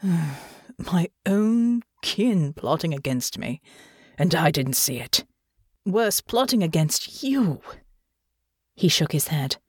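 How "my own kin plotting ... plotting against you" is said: slow, weary bitter lament; dejected old man. Acted. Old lord laments betrayal.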